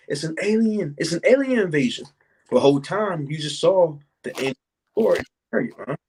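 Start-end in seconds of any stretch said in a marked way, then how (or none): 0.1-2.1 higher, mock panicked cry of an alien invasion; a light, mocking voice of panicked people; mock alarmed onlooker. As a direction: imitate people freaking out over a UFO. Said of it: "They might start saying".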